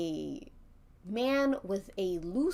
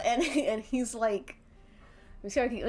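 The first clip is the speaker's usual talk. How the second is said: usual speaking voice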